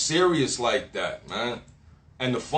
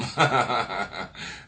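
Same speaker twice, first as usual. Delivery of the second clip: low chuckle running on; gloating laugh; 4 semitones lower, 3 dB quieter than usual. Real, not acted. Speaker vows to starve energy vampires, gloating laugh. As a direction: laugh with relish after a threat.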